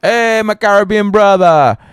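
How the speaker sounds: friendly greeting. Retold or imitated. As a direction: greet him like a long-lost brother. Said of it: "we always like".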